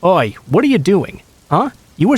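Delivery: strong put-on Filipino accent, scolding a daughter; mock Filipino mom accent. Pretending to be the girl's mother to scare off the man, mock Filipino accent scolding. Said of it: "best impersonation of an older Filipino woman getting mad at her child".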